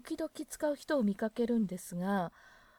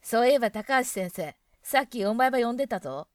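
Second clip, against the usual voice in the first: student calling out; 7 dB louder than usual. Acted. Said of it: "教室での生徒同士の会話".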